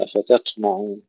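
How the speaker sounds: أفتطمعون with ط softened into a light airy t; the mistake: no weight or bounce on ط in أفتطمعون; thinned ta. Shown as a demonstration. Teacher showing what not to say, light t in أفتطمعون. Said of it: "لا نهمسها ولا نرققها".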